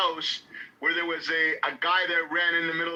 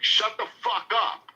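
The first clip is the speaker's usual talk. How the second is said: drawn-out, higher mock yell without much volume; retold yell; 4 semitones higher than usual. Man jumping up at the meeting, mock yelling. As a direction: imitate a heckler, slow and emphatic. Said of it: "he started yelling".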